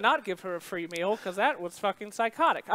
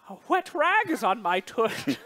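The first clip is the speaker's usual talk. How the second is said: lightly voiced old-time cartoon man, slow; a hint of a slow 1920s cartoon voice; 1920s cartoon character; 3 dB louder than usual. Retelling the embarrassed diner's complaint in a light, slow cartoon voice. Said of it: "he talked like, ... a cartoon character from the nineteen twenties".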